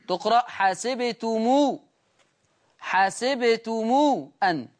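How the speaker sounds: حسبتمو with the final mim lengthened into a long u; linked mim. Shown as a demonstration. Teacher demonstrating the plural mim link in حسبتمو. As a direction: say حسبتمو ending in a drawn-out oo. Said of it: "بصلة ميم الجمع".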